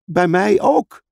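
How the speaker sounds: high, urgent cry; alarmed call. Acted. Lucy feeling the same pull, calling out. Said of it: "riep Lucy".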